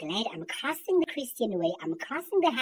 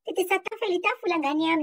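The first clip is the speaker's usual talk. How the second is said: a hint of a higher, mock classroom voice; imitating teacher; 5 semitones higher than usual. Mocking the black teachers' Afrikaans lesson, a touch higher. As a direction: parrot the teacher drilling a sentence. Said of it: "teachers who came to school".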